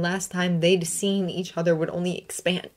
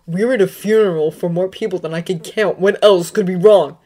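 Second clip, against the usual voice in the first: choked cry; 9 dB louder than usual. A narrator's reading. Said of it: "A choked cry escaped".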